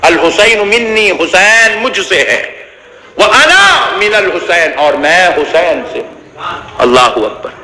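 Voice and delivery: devotional preaching. Acted. Tender devotional part of sermon.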